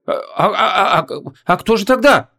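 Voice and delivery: high flustered mumbling; lightly voiced confused girl; muttered confusion. A narrator's reading. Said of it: "забормотала Вон".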